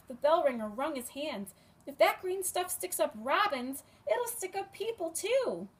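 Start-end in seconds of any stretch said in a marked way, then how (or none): 1.9-5.7 put-on frightened old man. Ringer frightened.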